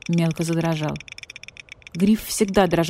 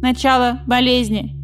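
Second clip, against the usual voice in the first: higher, louder croaky sick message; croaking rook; 6 semitones higher, 4 dB louder than usual. Acted. Sick rook sends message to badger police, croaky. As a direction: croak the dire message urgently.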